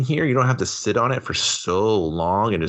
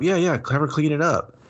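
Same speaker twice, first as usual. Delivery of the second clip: eager mock reply; 7 semitones higher than usual. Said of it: "He's like".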